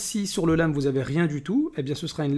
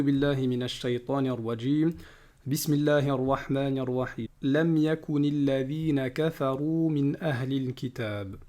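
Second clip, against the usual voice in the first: Quran recitation; 4 dB quieter than usual. Acted. Teacher reciting Surah Al-Bayyinah to students, chanted. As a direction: recite each word with care.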